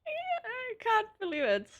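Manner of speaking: high, slow words broken by laughter; can barely get it out for laughing; real laugh-crying disbelief. Real, not acted. Reading funny translation, breaking up.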